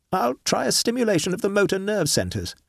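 thinking aloud over the machine; Horton, puzzled. Acted. Horton announcing the next step.

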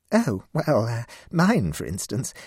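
feeble laugh. Acted. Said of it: "with a feeble laugh".

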